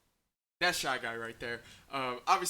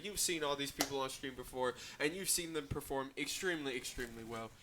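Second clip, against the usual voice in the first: muffled behind a mask. Real, not acted. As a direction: speak through a face covering. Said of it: "I apologize if we're a little bit muffled".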